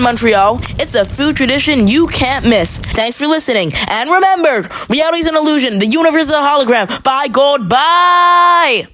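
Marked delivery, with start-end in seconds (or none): 3.9-8.9 high goofy voice. Acted. Weird high sign-off.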